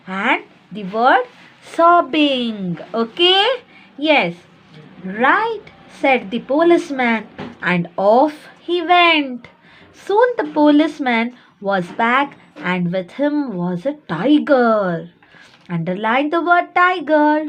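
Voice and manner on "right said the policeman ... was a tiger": deliberate, expressive classroom read-aloud; story reading aloud. A narrator's reading. Teacher reading the policeman's part of the story, read-aloud. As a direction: read to young pupils with lifted quotes and spaced phrases.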